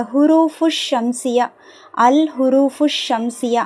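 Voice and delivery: "ஹுரூஃபு ஷம்சியா" linked through a held SH, no L; fa joined to sheen. Shown as a demonstration. Teacher shows fa joining sheen, held SH in "ஹுரூஃபு ஷம்சியா". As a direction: run FU straight into SH in "ஹுரூஃபு ஷம்சியா". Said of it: "ஃபா டைரக்டா ஷீனோட தான் இணையுது".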